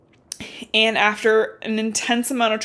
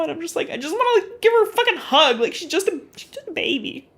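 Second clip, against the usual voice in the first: high-pitched, gushing sympathy; pitying coo; 8 semitones higher than usual. Real, not acted. Reader wants to hug the girl, pitying coo.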